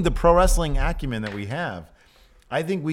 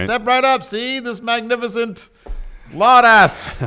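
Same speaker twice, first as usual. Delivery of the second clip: high, loud carnival barker; old-timey barker; 10 semitones higher, 6 dB louder than usual. Pretend. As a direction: sell the sideshow like a barker. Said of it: "old-timey voice, so you sound the part".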